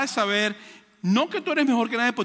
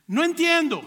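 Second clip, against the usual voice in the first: confused stranger; 8 semitones higher, 4 dB louder than usual. Retold or imitated. English speaker fails to understand.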